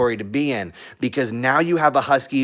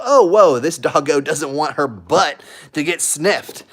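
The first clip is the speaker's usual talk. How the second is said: voicing the other dogs; 3 semitones higher, 5 dB louder than usual. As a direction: squeal it like a surprised dog backing off. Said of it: "They go".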